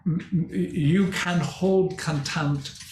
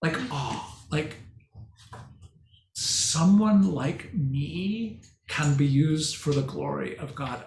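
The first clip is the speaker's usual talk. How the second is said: hushed shock; 2 semitones lower than usual. Retold or imitated. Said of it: "a sense of shock".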